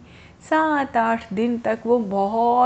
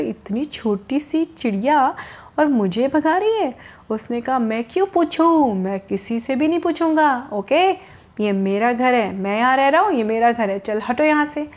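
angry rabbit. Acted. Rabbit refusing the little bird, mildly angry and stubborn. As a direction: dig in and refuse to budge. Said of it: "अब खरगोश को और गुस्सा आ गया".

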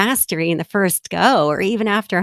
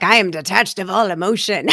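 mock stoic. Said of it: "It's this very stoic place".

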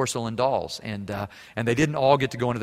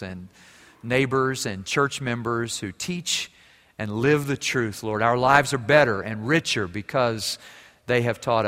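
prayer. Real, not acted. Closing prayer after sermon.

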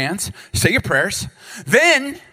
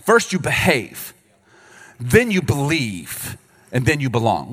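slow, deliberate reversed list; slow, mocking the wrong order; 2 semitones lower, slower than usual. Shown as a demonstration. Pastor mocking the church's old message, slow and deliberate. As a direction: lay out the wrong order slowly. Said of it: "here was the message we were sent".

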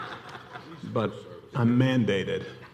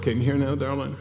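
louder, higher call to the back; real check whether the room can hear; 5 semitones higher, 3 dB louder, faster than usual. Real, not acted. Checking mic with audience.

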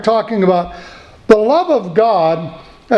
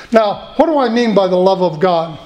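ordinary talk

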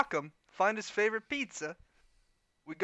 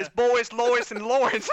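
put-on lightly Polish accent, a bit louder; names in a mock Polish accent; 5 semitones higher, 6 dB louder than usual. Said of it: "that is a spot-on Polish accent".

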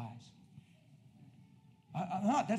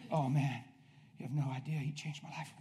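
retold heartfelt testimony; 5 semitones lower than usual. Preacher telling seatmate about Jesus, hushed testimony.

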